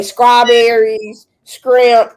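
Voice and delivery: put-on "strawberries, scrimp" as the TikTok girl says them; imitated Memphis pronunciation. Mocking the girl on TikTok, imitated mispronunciation. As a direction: mimic her "scrimp" for shrimp. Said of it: "and she say".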